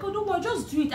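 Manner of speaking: friend's voice. Retold or imitated. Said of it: "She was like".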